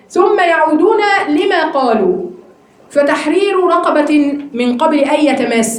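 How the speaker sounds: slow, measured verse reading; slow formal recitation; Quran recitation. Acted. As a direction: recite the verse slowly and deliberately, each word weighted. Teacher recites the verse aloud.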